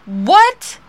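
loud, high-pitched mock disbelief; retold bafflement. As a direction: act out not understanding a word. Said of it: "when she started talking".

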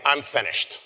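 a touch of dejection, acted out; mock dejected. Shown as a demonstration. Preacher showing how Jesus didn't say it, mildly dejected. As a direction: lightly imitate someone defeated. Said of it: "He doesn't say in a dejected way".

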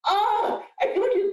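carried away by the realization; overwhelmed excitement. Real, not acted. Emotional excitement.

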